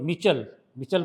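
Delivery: मिचल, short first vowel, then ch; short mi, then chal in मिचल; corrected pronunciation. Shown as a demonstration. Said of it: "sorry, मिचल".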